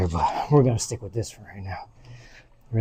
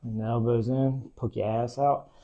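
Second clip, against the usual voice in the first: quiet coaching; 8 dB quieter, slower than usual. Real, not acted.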